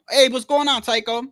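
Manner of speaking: high, loud fake-friendly hello; mock friendly greeting. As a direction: greet him like an old pal, hammed up.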